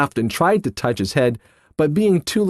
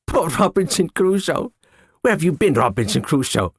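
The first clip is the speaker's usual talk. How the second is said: parrot squawk; 2 semitones higher than usual. Acted. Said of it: "He called him".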